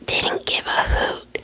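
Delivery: slow, drawn-out whisper, each word given weight; slow savoring whisper. Shown as a demonstration. Rereading the line to viewers, slow relished whisper. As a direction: relish the phrase slowly. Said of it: "You can say fuck".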